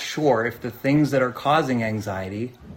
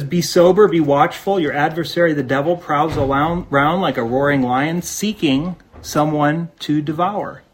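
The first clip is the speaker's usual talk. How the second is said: forceful scripture reading; 3 semitones higher, 4 dB louder than usual. Acted. Reads scripture loudly.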